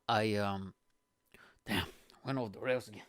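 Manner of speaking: breathy whisper; whispered hesitation. Real, not acted. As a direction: drop to a whisper. Trailing off after rant.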